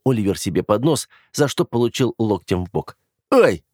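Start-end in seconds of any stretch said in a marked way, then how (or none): 3.3-3.6 sudden yelp, higher and louder; a jolt of pain from an elbow; sharp ouch. Acted. Brother elbowed by his sister, yelping in pain.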